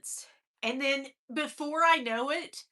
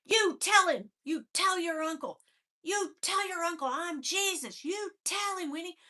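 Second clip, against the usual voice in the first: father's order; 5 semitones higher than usual. Retold or imitated. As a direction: bark it like a frantic father. Father ordering her, retold.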